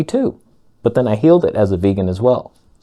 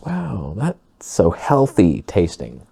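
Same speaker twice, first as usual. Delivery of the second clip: fake polite praise; slower than usual. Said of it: "she's just like".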